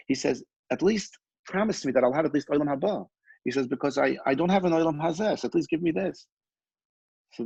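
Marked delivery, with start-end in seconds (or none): 0.7-3.7 retold pleading. Peddler begs rabbi for promise. 3.7-6.3 higher-pitched imploring, as a storyteller quoting; retold pleading. Peddler begs the rabbi for at least this, pleading.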